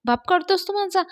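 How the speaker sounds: mild mock yell, rising high at the end; angry shout. Mahesh angrily yelling at Datta over the insult to his father. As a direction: pitch jumps up in outrage. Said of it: "Mahesh ओरडतो".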